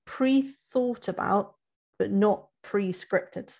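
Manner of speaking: slow stress on "pre-thought", then on "pre-scripted"; emphasis on pre-thought. Real, not acted. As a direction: weigh "pre-thought" against "pre-scripted", slowly. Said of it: "the emphasis there".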